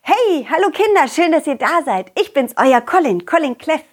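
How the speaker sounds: lightly voiced cheerful cartoon dog; a hint of a friendly puppy talking to kids. Character greets children.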